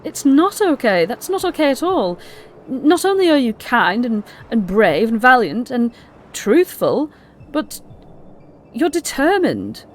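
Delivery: earnest pleading outburst; emotional protest. Acted. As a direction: insist she is not okay, rising. Gleam protests, emotional apology.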